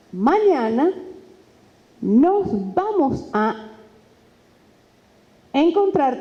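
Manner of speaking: very slow with long pauses before encontrar; suspenseful pausing; dramatic pauses. Shown as a demonstration. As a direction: hold the silence before encontrar. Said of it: "hay un elemento que el silencio".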